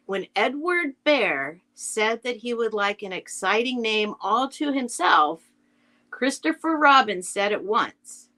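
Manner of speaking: measured narration with lilting, stressed key words; storybook read-aloud. Acted. Reading Winnie the Pooh like to kids at school, lilting storytelling. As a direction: read to schoolchildren, pausing between phrases. Reads the introduction to listeners.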